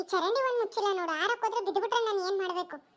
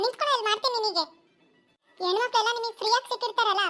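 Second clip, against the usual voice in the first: loud, raised tirade; angry scolding; 3 dB louder than usual. Acted. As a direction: tear into him without letting up. Girl berates the harasser.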